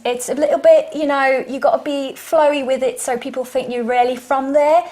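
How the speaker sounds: British accent. Shown as a demonstration. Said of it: "this is my British accent".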